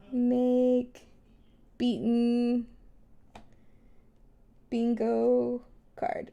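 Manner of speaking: each word spaced out slowly; slow and deliberate. Shown as a demonstration. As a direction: dictate it word by word. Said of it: "mental note to myself".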